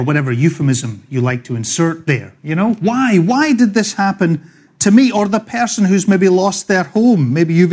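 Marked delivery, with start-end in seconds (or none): 2.7-5.1 mildly pleading, raised pitch; a touch of acted protest; aggrieved employee. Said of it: "an employee asks why they are being restructured".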